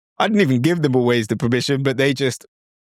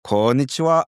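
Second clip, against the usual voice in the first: a high, delighted "Oh, konnichiwa"; delighted reply; 6 semitones higher than usual. Retold or imitated. A local delighted by a foreigner's hello. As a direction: beam back at the greeting. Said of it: "And you'll say".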